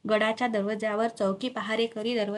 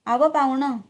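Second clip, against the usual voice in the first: guard's raised-voice hail; calling out; 4 semitones higher, 7 dB louder than usual. A narrator's reading. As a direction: hail a stranger, louder and higher. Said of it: "पहारेकऱ्याने हाक मारली".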